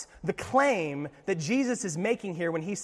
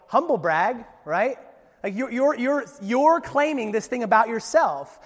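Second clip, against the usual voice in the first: sneering Pharisees; 5 semitones higher, 7 dB louder than usual. Retold or imitated. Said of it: "they look at Jesus and they go".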